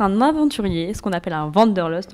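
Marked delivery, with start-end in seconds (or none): 1.5-2.1 English accent. Real, not acted. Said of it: "désolé, j'ai un accent anglais".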